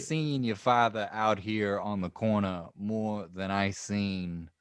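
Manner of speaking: a hammed-up Chicago tough-guy accent, slow; mock Chicago accent. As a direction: lay on a joking Chicago accent. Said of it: "this is my Chicago accent".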